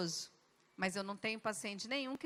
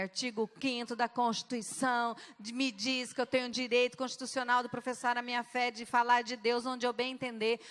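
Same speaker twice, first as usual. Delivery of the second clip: firm defiance; 3 dB louder than usual. Retold or imitated. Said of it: "Eu bati na mesa e falei".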